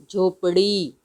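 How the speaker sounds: flick the tongue before the final vowel of "झोपड़ी"; flapped ड़. Shown as a demonstration. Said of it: "तो हम इसको बोलेंगे".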